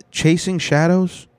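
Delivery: mock incredulous echo. Real, not acted. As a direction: repeat it like it's absurd. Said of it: "That's the kind of slang they use".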